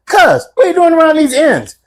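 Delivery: high English mock questioning; imitated English accent. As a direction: ask it in a put-on English accent. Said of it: "I love your accent".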